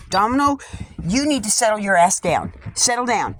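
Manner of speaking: real scolding of a restless dog. Real, not acted.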